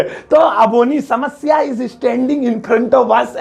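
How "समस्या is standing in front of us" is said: hammed-up mistake with a laugh; laughing wrong version. Shown as a demonstration. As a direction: laugh through the silly sentence. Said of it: "ऐसे नहीं बोलेंगे".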